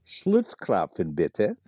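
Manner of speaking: slow, lingering German accent on Schlutzklopfen, bitte; romantic German accent. Shown as a demonstration. Guest answers host's request, mock romantic German accent. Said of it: "Say it again in your most romantic German accent".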